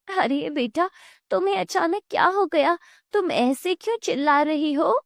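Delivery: lightly voiced startled neighbour; puzzled neighbour.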